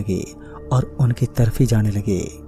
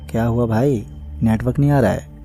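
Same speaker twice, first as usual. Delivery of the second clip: lightly voiced woman, slightly changed timbre; a hint of a sly witch posing as a woman; man doing a woman's voice. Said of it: "एक औरत की आवाज़ में बोला".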